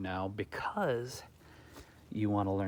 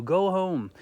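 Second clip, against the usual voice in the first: hostile shout; 9 semitones higher, 6 dB louder than usual. Retold or imitated. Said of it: "literally telling you".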